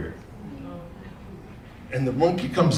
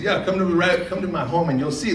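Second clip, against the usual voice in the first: rabbit voice; 7 semitones higher than usual. Acted. Rabbit inviting animal home.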